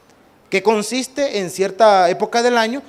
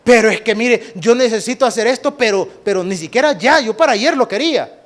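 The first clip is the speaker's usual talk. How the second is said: creyente impaciente; 4 dB louder than usual. Pretend.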